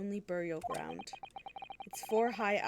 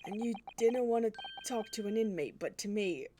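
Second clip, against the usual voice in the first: light Scottish governor. Acted. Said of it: "this man is Scottish".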